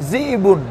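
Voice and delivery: "জিবুন" with a catch after জি; glottal catch. Shown as a demonstration. Teacher showing students a hamza push, caught "জিবুন". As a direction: jolt between জি and বুন in "জিবুন". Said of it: "একটা ধাক্কা দিচ্ছেন আপনি".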